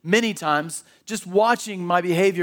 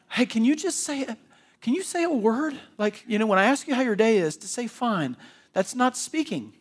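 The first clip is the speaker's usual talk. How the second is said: higher, pleading girlfriend, hammed-up; mock girlfriend voice; 5 semitones higher than usual. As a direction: playfully nag a silent boyfriend in a higher voice. Girlfriend begging a guy to talk.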